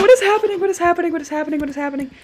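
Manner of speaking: panicked repeating that runs out of force; freaking out, fading. Real, not acted. Gamer baffled by a broken game, fading panic. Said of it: "Sorry for freaking out there".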